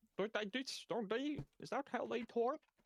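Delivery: clumsy put-on Swedish accent, very high pitch. Trying how Swedish people talk after admitting they can't: bad Swedish accent. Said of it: "can't do a Swedish accent".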